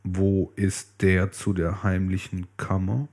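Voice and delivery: Blaubart demanding. Acted. Blaubart asks his wife for the key, lightly menacing. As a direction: ask it low and slow, like a quiet threat. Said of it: "sagte er".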